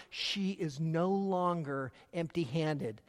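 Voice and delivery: hushed, reflective statement; quiet. Shown as a demonstration. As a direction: let it land softly, slowly. Repeated key line, quiet take.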